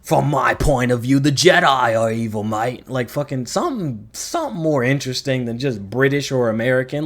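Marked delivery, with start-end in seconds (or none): 0.0-2.9 mock Australian accent, louder; playful Australian twang on mate. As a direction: toss it off in a jokey Australian accent. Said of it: "just give 'em, like, an Australian accent".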